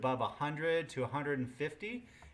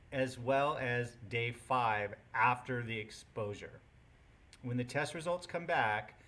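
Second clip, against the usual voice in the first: teacher voice. Real, not acted. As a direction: project it like addressing a full classroom. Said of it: "I'll use my teacher voice".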